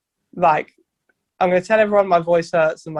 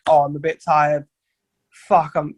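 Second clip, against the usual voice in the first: worried fretting; 2 semitones lower than usual. Retold or imitated. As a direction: fret over being a bit tired. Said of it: "I'm like".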